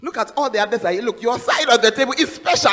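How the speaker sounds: loud, half-sung coaxing; laughing insistence. Retold or imitated. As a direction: tease him toward his special plate. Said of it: "I said".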